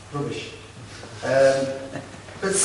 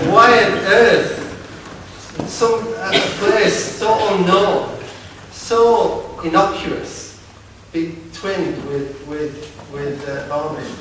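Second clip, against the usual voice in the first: higher and slow, in disbelief; incredulous shock; 4 semitones higher, slower than usual. Retold or imitated. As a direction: stretch it out, amazed at the absurdity. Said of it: "I was absolutely shocked".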